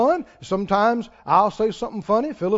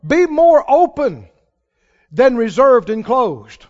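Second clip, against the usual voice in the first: preaching; 4 dB louder than usual. Acted. Impassioned sermon appeal.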